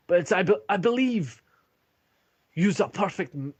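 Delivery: rally the troops with gravity; dwarf commander's address. Acted. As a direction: Turek tasking the party with their mission, solemnly. GM voices dwarf commander Turek.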